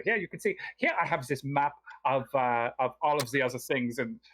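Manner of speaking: lightly voiced El Romior, polite host; lightly voiced scholar NPC. El Romior's long in-character explanation.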